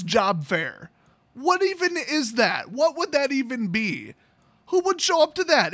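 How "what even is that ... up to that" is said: higher-pitched incredulous questions. Real, not acted. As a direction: ask in rising comic disbelief. Mock disbelief at job fair idea.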